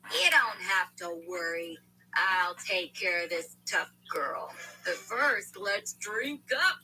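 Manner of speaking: soothing them like a patient schemer; calm voice. Acted. Walter reassures the family, slow calm hush. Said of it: "Walter continued in a calm voice".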